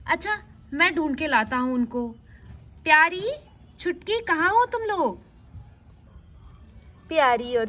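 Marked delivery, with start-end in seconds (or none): 2.8-5.2 calling out. Acted. फूफा बच्चियों को पुकारता है.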